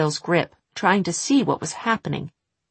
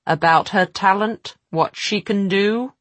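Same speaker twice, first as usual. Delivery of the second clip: demanding witch; 4 semitones higher, 4 dB louder than usual. Acted.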